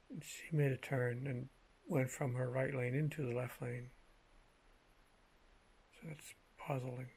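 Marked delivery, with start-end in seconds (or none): 5.9-7.1 whispered puzzled aside; whispering. Real, not acted. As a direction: drop to a whisper.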